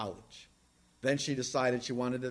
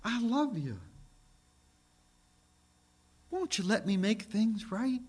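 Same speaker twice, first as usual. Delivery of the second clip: gentle plea; 5 semitones higher, 4 dB quieter than usual. Acted. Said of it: "It would be something like this".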